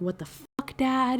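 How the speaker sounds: put-on screaming. Recounting the story where she is forced to marry Callum, retelling a scream. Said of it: "She's screaming".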